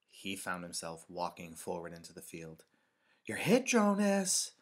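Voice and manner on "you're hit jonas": high, loud, drawn-out playground taunt; slow, stretched high shout; boy's yell. A narrator's reading. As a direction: holler across the field to a playmate. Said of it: "Asher yelled from behind the tree".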